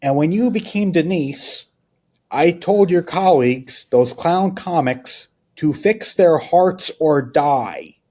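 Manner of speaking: high, slow, reedy-voiced Lynch; slow, lifted Lynch voice delivering a verdict; David Lynch impression. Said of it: "Lynch goes".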